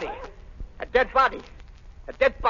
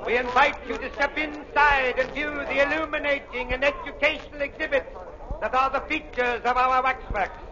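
snake oil seller; 3 semitones higher than usual. Acted. Waxworks barker calling in crowd.

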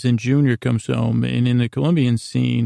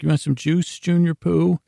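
doting dad; 5 semitones higher than usual. Retold or imitated. Dad cooing at teen son.

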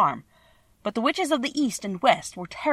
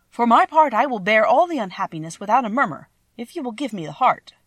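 earnest Tin Woodman; 4 semitones higher, 6 dB louder than usual. Acted. Tin Woodman insists on a heart.

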